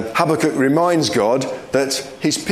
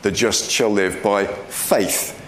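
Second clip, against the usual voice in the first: slow, with "faith" set apart at the end; stress on FAITH; 2 semitones lower, slower than usual. Shown as a demonstration. Preacher showing the emphasis in Romans, stress on "faith". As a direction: lean on the last word, "faith". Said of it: "we see an emphasis on faith".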